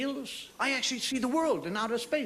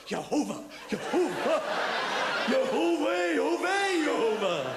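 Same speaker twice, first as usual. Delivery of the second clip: mock ecstatic calling; 6 semitones higher, slower than usual. Imagined Jewish lovers calling.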